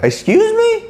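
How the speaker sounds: sharply high, offended teacher; indignant excuse me. Retold or imitated. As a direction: clap back, shocked and offended. Teacher reacts to bully's insult.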